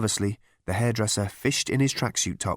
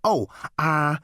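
sheepish, higher hesitation; stall, caught unprepared; 5 semitones higher than usual. A narrator's reading. Hairdresser caught without a report, sheepish. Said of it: "said the hairdresser with a sheepish look".

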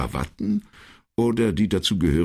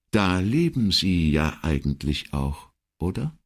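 thoughtful. Acted. Secretary muses after a pause, thoughtful. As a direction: muse aloud, lifting the final word. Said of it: "versetzte Elettra nachdenklich".

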